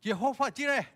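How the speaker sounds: high, loud mock shout of praise; imitating a shout. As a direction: yell the name like a crowd. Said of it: "mereka teriak". (teriakan meniru jemaat)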